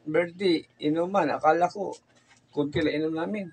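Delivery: put-on slurring drunk husband. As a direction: ramble like you're drunk. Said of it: "Kung lasing na lasing kayo?".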